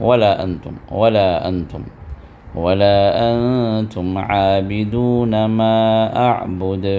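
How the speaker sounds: ولا kept short at two counts; two-count madd. Shown as a demonstration. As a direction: do not stretch ولا. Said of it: "صرف دو حرکت".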